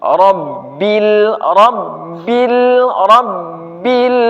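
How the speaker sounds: Rabbil ending in a clear bil; correct pronunciation. Shown as a demonstration. Teacher repeats the correct Rabbil. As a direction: say Rabbil with a crisp i.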